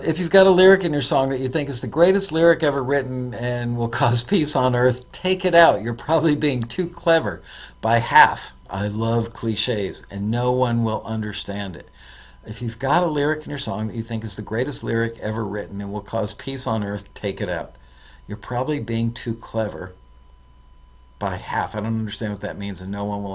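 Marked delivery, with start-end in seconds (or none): 0.0-8.5 punchy emphatic reading of the tip. Shown as a demonstration. 12.4-21.7 fast, softer run-through; quick re-read. Shown as a demonstration.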